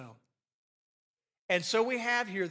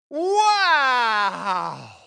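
long, loud, higher wow; amazed wow; 4 semitones higher, 14 dB louder than usual. Acted. Adam seeing Eve, an awestruck wow. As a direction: let the wow soar in wonder. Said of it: "He was basically saying this".

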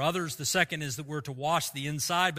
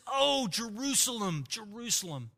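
restrained weeping lament; 3 semitones lower than usual. Acted. Preacher voicing Jesus weeping over Jerusalem, restrained sorrowful lament. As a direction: grieve aloud with long pauses, voice falling away. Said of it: "He weeps and he says".

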